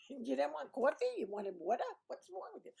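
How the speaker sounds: incredulous Brooklyn scolding; mock-bewildered Brooklyn questioning; thick Brooklyn accent. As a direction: put on heavy Brooklynese, needling. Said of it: "I don't sound that Brooklyny compared to most people".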